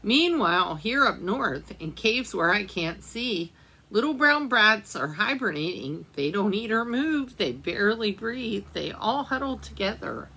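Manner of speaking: gentle storybook reading aloud; reading to children. A narrator's reading. Teacher reading a winter book to children, gentle storytelling. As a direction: read it like a picture book for little ones.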